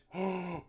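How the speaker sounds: theatrical gasp of shock; sharp, put-on gasp; mock gasp. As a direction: gasp as if caught out. Reacts to discovered fanfic.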